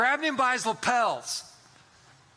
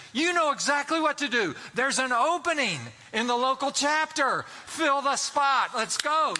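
rally him into action, punchy; fired-up urging; 5 semitones higher than usual. Retold or imitated. Urging friend to join Gideons.

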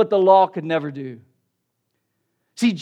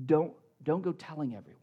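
lower, softer, quick quoted warning; hushed instruction; 5 semitones lower, 9 dB quieter, faster than usual. Acted. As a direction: drop it down as a discreet order. Acting Jesus telling the man silence.

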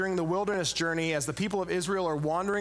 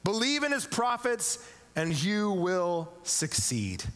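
ringing proclamation, higher on each believe; a king rallying his army; proclaiming king; 6 semitones higher, slower than usual. Retold or imitated. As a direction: call it out to the marching people. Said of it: "he proclaims".

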